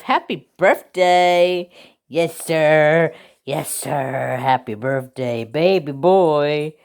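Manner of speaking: slow, doting pet talk; gushing birthday wish. Real, not acted. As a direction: coo a birthday wish to the dog. Birthday wishes to her dog.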